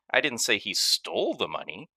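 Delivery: "stole" given the weight, the rest even; stress on stole. Shown as a demonstration. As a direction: lean on "stole". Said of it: "based on which word carries the emphasis".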